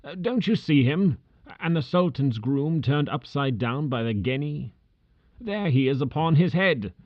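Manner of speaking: put-on high, strained old man near tears and laughter; overjoyed memories, half sobbing; between laughing and crying. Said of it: "a most extraordinary voice between laughing and crying".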